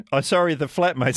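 ordinary talk

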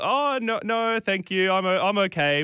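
high, polite mock refusal. Refusing the driver's coffee, high and polite. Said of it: "I was like".

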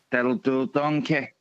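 low-pitched cartoon catchphrase impression; Shrek. Caller showing off his impressions to the radio host, as Shrek. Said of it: "I can actually do".

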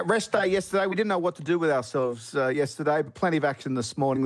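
normal talking voice

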